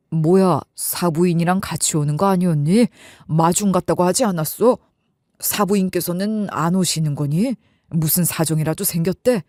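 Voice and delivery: low-voiced confused dad; puzzled dad. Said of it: "어리둥절한 표정이더라고요".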